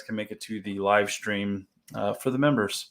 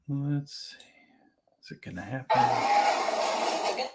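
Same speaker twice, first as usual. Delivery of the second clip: whispering; 4 semitones higher, 4 dB quieter, slower than usual. Real, not acted. Waiting for the stream to start.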